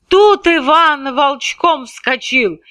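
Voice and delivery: usual speaking voice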